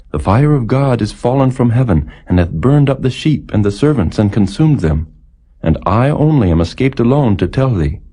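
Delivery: a hint of a breathless servant bearing bad news; messenger's report.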